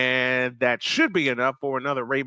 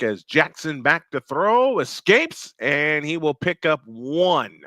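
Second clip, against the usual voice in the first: punchy football call, peaking on the escape; live play-by-play; slower than usual. Real, not acted. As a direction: call the scramble as it happens.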